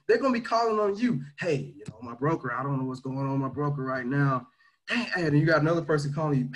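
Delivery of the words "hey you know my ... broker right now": low, fretful voice of a stressed trader; worried caller. Retold or imitated. Team member calling about his broker, lower worried voice. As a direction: sound like a worried guy on the phone.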